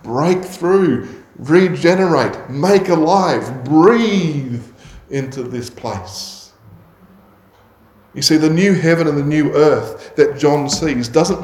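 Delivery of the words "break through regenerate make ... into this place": voiced prayer, higher; pleading prayer to the Lord; earnest prayer. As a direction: pray it from the heart. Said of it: "it fuels our prayers for others".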